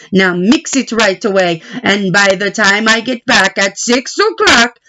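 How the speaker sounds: a hint of a stern baker; baker giving orders. Baker instructs Big Anthony.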